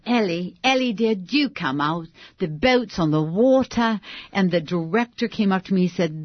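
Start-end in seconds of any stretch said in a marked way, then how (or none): 0.0-4.0 put-on British accent. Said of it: "I had to do a British accent".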